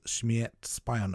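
"Śmierć spionom." said slowly, each Polish syllable spelled out; slow, careful attempt at Polish "Śmierć spionom."; careful Polish pronunciation. Shown as a demonstration. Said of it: "hoping I'm pronouncing that correctly".

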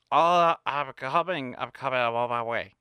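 a lightly voiced impression of her calling back; imitating Hillary. Hillary on the phone telling him she's coming out. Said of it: "that's exactly how she sounds".

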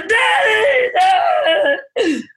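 put-on high, loud child calling Daddy; eager children shouting for their dad. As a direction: call out like a kid outside the door.

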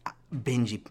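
lightly put-on Italian-accented parent; mock disbelief in a hammy Italian accent; a hint of a scolding Italian father. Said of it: "it's not offensive to do an Italian accent".

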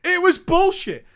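ordinary delivery

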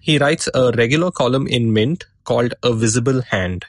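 sore throat and stuffy nose; talking through a head cold; blocked nose. Real, not acted. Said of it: "I'm recording this with a sore throat and a blocked nose".

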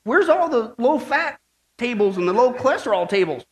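hesitant, mildly timid question. Acted. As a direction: ask haltingly, not too sure. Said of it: "the old man asks timidly".

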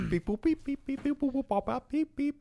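high robot beeping; toy robot voice. Pretend. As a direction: beep and boop like a toy robot. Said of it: "give me a bit of maths music".

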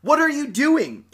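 high, loud ghoul bellow; ghoul shouting. Acted. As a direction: yell it at him like a monster. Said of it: "vociferated the ghoul".

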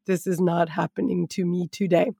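low, subdued mock disbelief; quietly recalled inner protest; retold dismay. Mother looking down at spilled Skittles, retold dismay.

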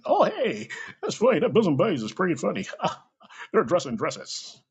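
high, laughing mock of a parent who finds it funny; mocking amused parent. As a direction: laugh along like a hypocritical parent.

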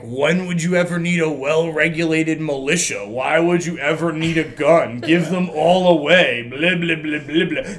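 lightly mocking imitation of gun-law arguers. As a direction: parody their argument, trailing into blah-blah. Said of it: "were arguing gun laws, like".

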